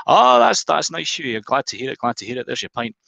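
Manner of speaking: pleased Glaswegian barman handing over a pint. Retold or imitated. Barman answering Huey, mild Glaswegian accent. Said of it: "He's Glaswegian".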